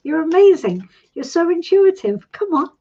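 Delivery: light pretend cheering; sideline cheering. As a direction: cheer her on like a friend at the sidelines. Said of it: "cheering for you from the sidelines".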